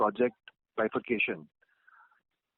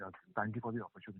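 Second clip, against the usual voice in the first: much softer, faint, barely audible. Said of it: "Abhijeet, you're not audible".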